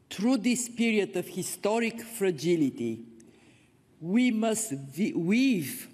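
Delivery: raspy, fading hoarse voice; pushing words out through a failing hoarse voice. Real, not acted. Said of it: "I'm losing my voice".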